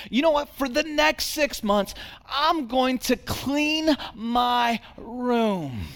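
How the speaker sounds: put-on high, quick, eager kid voice; a six-year-old rushing to make amends; eager little boy. Son voiced in the story.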